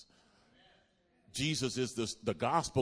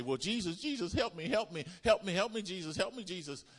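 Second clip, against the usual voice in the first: high whiny pleading for help; mock pleading; 8 semitones higher than usual. Preacher mocking people who beg Jesus, high whiny plea. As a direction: mimic a needy begging prayer. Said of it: "Because some people say".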